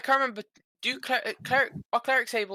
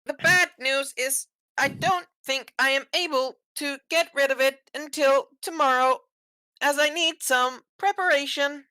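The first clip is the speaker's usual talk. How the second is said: raised in-character cleric voice; 11 semitones higher, 6 dB louder than usual. Acted.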